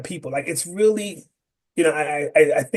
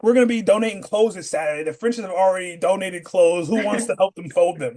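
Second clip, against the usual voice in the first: lightly acted church announcer, pitched up; 5 semitones higher than usual. Announcing volunteer drives to the congregation, lightly mimicked church announcer. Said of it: "household that often went to church".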